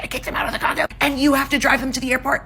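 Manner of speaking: high-pitched mock giddy mom; imitated giddy laughing. Mom repeating her news to groggy dad, high and mock giddy. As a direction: retell it high, as if holding back laughter. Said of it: "Apparently she was laughing too".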